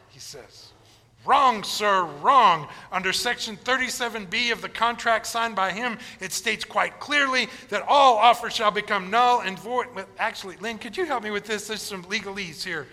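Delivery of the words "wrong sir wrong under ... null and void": stern Wonka reading the contract. Retold or imitated. Wonka voiced in story.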